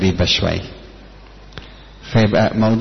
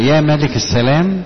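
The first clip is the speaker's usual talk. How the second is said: praying plea; 4 semitones higher than usual. Retold or imitated. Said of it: "لما اقول له".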